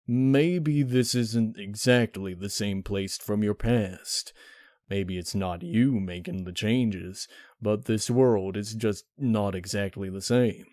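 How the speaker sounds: unhurried, reasoning it out gently; slow Big Mac. Acted. Big Mac calmly reasoning with Applejack and Pinkie, slow.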